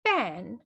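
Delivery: PAN with a popped p; plosive sound demo. Shown as a demonstration. Teacher contrasting look-alike words, plosive sound demo. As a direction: pop the p at the start of PAN. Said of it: "just the plosive sound".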